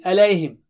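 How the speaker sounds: alayhim with a full final m; alayhim, ending sounded; correct ending. Shown as a demonstration. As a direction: close alayhim on the m. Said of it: "Don't say alayhi".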